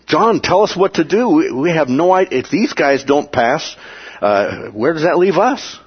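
high, pleading crowd voice begging John; desperate plea. Retold or imitated. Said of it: "they're desperate".

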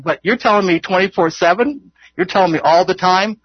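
mildly incredulous, pitch lifted; incredulous objection. Acted. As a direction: question it in mock disbelief. Acting a believer's incredulous objection.

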